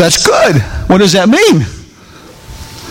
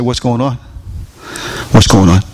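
gentle concern; 7 semitones lower than usual. Retold or imitated. Pastor gently asks battered woman.

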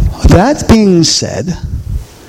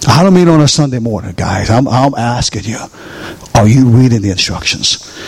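usual speaking voice

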